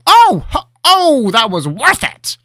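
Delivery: high, slow, giggling glee. Acted. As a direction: giggle it out gleefully. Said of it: "while he giggled to himself".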